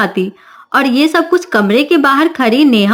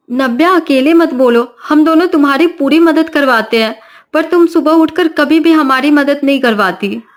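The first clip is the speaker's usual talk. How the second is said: reproachful sister-in-law; 3 semitones higher than usual. Acted. Sister-in-law rebukes Navya.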